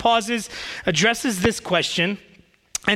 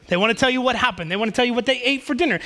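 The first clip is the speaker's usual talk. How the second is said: usual speaking voice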